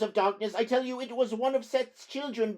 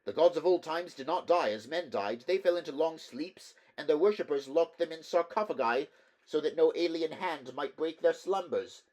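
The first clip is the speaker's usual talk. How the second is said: high, tense, fearful voice; fearful clerk; 7 semitones higher, 6 dB louder than usual. Acted. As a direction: warn them, rising dread. Terrified clerk warns of horror.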